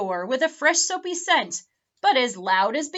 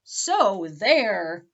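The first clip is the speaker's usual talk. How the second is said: bold; 2 semitones lower, 3 dB louder than usual. Acted. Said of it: "boldly added".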